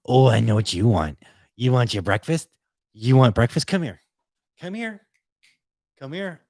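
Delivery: high, excited pet-owner voice; excited dog talk. Real, not acted. Owner offering the puppy breakfast, high and excited dog-talk.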